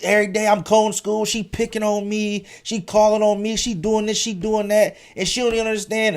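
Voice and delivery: put-on high, pleading kid about to cry; a boy complaining to mom in tears; upset complaint. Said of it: "I'm like".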